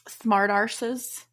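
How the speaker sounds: slow, savoured Australian "smart arses"; Aussie slang. Retold or imitated. Host quoting Aussie slang from the case, slow Australian drawl. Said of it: "some of them were like".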